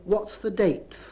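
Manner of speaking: "date" given a th ending, like "dayth"; Bristol pronunciation. Shown as a demonstration. Lecturer shows Bristol habit, "date" pronounced "dayth". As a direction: say "date" to match the end of "fifteenth". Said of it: "there's a, a habit of saying".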